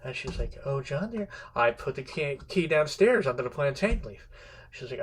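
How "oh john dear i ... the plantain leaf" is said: lightly acted patronizing sweetness; condescending wife. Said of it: "she's now condescending to him".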